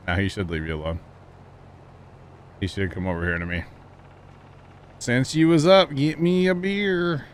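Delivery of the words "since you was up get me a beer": higher, louder hammed-up Missouri redneck drawl; redneck Foxworthy bit. Recalling the family's Foxworthy CD, hammed-up redneck drawl. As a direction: drawl out the beer request like a Foxworthy joke. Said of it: "We used to have a Jeff Foxworthy C D".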